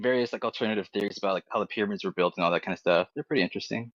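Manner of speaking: normal talking voice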